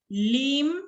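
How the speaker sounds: "límpidos" with LÍM held up high and set apart; "límpidos" split after its stressed first syllable. Shown as a demonstration. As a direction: lean on LÍM, then add pidos. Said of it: "si la palabra fuera esdrújula".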